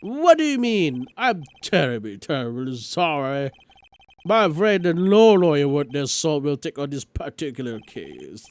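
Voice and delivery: evasive, apologetic elder brushing him off; flustered old lawyer. Acted. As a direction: dodge the question, then show him out.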